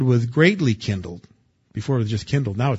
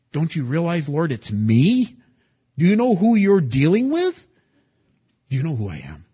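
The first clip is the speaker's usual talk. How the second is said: mock indignation; 4 semitones higher than usual. Mocking self-important prayer.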